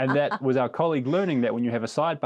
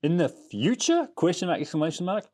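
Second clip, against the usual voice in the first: slow mock-dramatic reading; 6 semitones higher than usual. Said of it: "read parts of it out verbatim".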